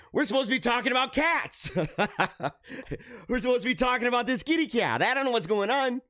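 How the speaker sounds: high, laughing through the words; breaking into giggles mid-sentence. Real, not acted. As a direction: laugh at yourself for drifting off topic. Laughs off going off topic.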